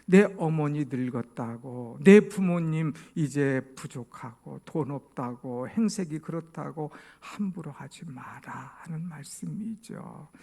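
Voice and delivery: ordinary talk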